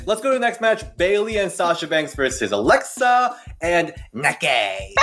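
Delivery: put-on playful Scottish accent, announcing a match. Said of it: "You and your Scottish accent is on point".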